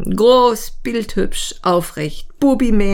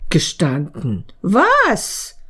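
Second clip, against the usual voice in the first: can't believe the confession; shocked disbelief; slower than usual. Acted.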